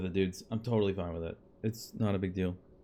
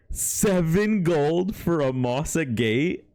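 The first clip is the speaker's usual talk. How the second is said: louder, slow incredulous question; can't believe the price; outraged disbelief; 5 dB louder, slower than usual. Real, not acted. Outraged by low sale price.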